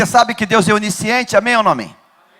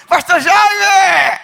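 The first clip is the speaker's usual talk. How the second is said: slow, high, called-out greeting; mock call across the shop; 8 semitones higher, much slower than usual. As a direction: hail the pastor from across the store. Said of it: "greeting in the fruit shop".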